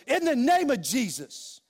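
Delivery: a touch of a declared shout; firm, slowed retold declaration; preacher recalling his shout on the falling plane, understated; mild retold shout. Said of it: "I just shouted it".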